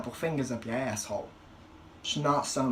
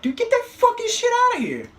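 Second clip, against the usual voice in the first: very high, loud squealing shout; patient shrieking at the dirty glove; disgusted yell; 10 dB louder than usual. Retold or imitated. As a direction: recoil and yell it away. Glove shoved in his face.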